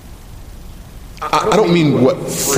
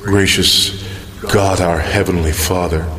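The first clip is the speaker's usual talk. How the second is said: public prayer. Real, not acted. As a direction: address God in humble, solemn reverence. Let's pray.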